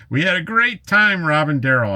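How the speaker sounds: high laughing recollection. Real, not acted. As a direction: laugh while recalling the fun. Laughing about good time.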